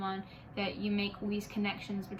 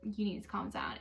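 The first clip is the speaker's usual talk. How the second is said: a softer, falling "You need to calm down"; condescending calm down; 4 dB quieter than usual. Retold or imitated. Friend repeating herself patronisingly, softer. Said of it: "and then, like".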